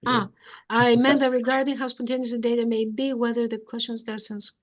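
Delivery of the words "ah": ordinary talk, nothing marked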